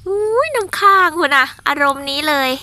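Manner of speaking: slightly slow breathy whisper of wonder; delighted whisper. Real, not acted. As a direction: hush in awe at the dew. Admiring dew on garlic. (กระซิบอย่างตื่นเต้น ช้าเล็กน้อย)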